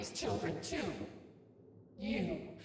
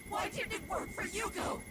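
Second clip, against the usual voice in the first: pained, higher-pitched demand; anguished protest. Acted. Woman asking why it failed Yuko, anguished.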